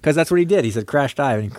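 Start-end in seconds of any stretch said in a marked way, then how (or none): 0.9-1.4 put-on southern accent. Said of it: "Why'd you grab your nose".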